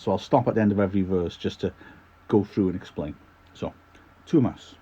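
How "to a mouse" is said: "To a Mouse" in a Scottish accent; title in amateur Scottish brogue. Shown as a demonstration. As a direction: say the title as a Scot would, "Mouse" shortened. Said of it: "in a bit of a Scottish accent".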